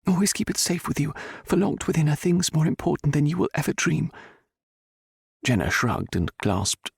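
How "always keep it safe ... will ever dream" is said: put-on high, solemn elderly noblewoman; solemn old lady. A narrator's reading. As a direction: warn her gravely, like a secret. Viscountess's remembered warning.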